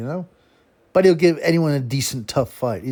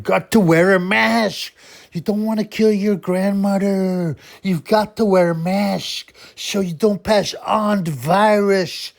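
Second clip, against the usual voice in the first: high, preachy hammed-up Swedish accent; mock Swedish accent; 8 semitones higher, 4 dB louder, slower than usual. Boxer lecturing people to wear masks, mock Swedish accent. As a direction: nag everyone in a slushy, high Swedish accent. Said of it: "a Swedish accent".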